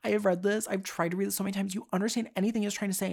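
high, fast, frantic plea to mom; retold desperate whine to mom; exasperated plea. Retelling crying plea to mom.

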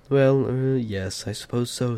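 hesitant, halting reluctant agreement; stammering. A narrator's reading. Bilbo reluctantly agreeing with Gandalf, stammering. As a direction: start high and loud, then falter. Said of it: "stammered Bilbo".

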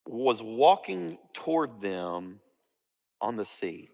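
slow, measured Bible reading with long pauses; solemn storytelling from scripture. A narrator's reading. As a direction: read the passage out deliberately, phrase by phrase.

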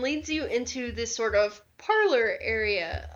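measured game master narration; scene description. Acted. Game master describes the tea parlor to players, calmly. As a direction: paint the room for the players.

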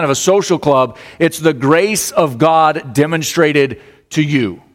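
lifted preacher's voice; emphatic preaching. Real, not acted. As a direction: press the point home to the congregation. Preaches with rising force.

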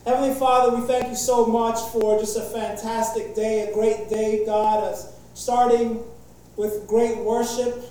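earnest pastor's prayer. Acted. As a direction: pray over the church, earnest and steady. Opens a prayer.

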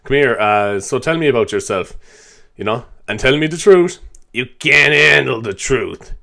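slow, lightly voiced Jack Nicholson, drawn out on the last line; a hint of a menacing movie star interviewing you; rough stab at a famous actor, slowing right down at the end. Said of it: "Imagine interviewing Jack Nicholson".

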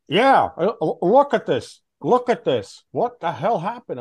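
retold angry boss. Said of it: "I was like".

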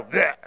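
mock throwing-up noise; imitated baby retching. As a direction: make a short baby spit-up sound. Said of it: "I think he's throwing up".

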